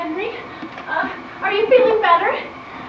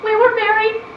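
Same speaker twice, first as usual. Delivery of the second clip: crying confession. Acted. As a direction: confess it through tears. Tearful wedding confession.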